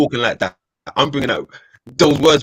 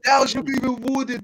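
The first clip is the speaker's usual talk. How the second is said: high hammed-up archaic line; mock old English; 12 semitones higher than usual. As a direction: quote the medieval phrase grandly. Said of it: "Thou, thou".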